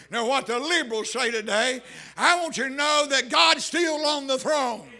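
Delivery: emphatic pulpit proclamation; full-force preaching. Real, not acted. Preacher exalts God on the throne to congregation, full-force preaching.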